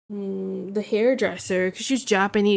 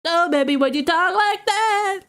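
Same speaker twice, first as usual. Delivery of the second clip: much higher, cooing at a pet; 9 semitones higher, 4 dB louder than usual. Real, not acted. Reacting to the dog's noise.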